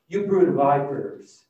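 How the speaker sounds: loud, slow condemnation; booming rebuke. Retold or imitated. John the Baptist rebuking the Pharisees, loud and slow. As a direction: thunder it at them slowly. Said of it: "Can you imagine that?".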